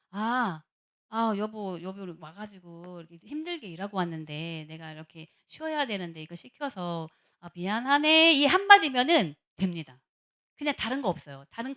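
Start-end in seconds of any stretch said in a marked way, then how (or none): 0.1-8.3 gently acted wifely apology; sympathetic apology. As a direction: soothe a tired partner, murmured low until the sorry. Model wife apologising to tired husband.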